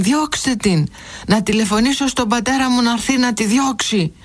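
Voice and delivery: put-on high, agitated child's yelling; angry shouting boy. A narrator's reading. Boy to headmaster, demanding his mother leave, shouting high. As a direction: shout it out, furious and upset. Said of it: "πλησίασε το διευθυντή φωνάζοντας".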